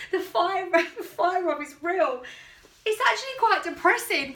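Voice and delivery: loud and high, half laughing; excited. Real, not acted. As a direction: exclaim it, amused and dismayed. Fire rub rant, laughing.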